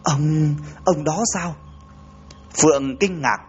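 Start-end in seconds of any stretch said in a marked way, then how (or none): 0.0-1.6 halting, stunned stammer; lắp bắp. Acted. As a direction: stumble over the first word, then ask. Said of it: "lắp bắp".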